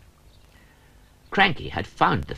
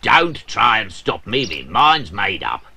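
louder, stubborn crane voice; gruff, loud, mind made up; determined Cranky; 2 semitones higher, 6 dB louder than usual. Acted. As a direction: dig in and refuse to be stopped.

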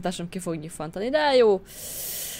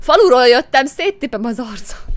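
louder, higher rough country yell on "széttipem"; tough village girl; 4 semitones higher, 11 dB louder than usual. Acted. She repeats the threat to the drunks as a loud country brawler.

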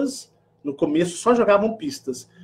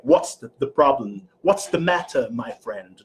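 light British English accent, a touch posh; 5 semitones lower than usual. Shown as a demonstration. Vlogger contrasting American with British English. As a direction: say it like a London lord. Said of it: "Mas o inglês britânico é".

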